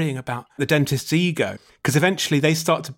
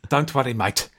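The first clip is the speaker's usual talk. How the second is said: short, clipped South African "Don't worry, mate". Shown as a demonstration. Dentist showing that the accent is clipped, in a South African accent. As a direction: clip each word South African style. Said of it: "It's quite clipped".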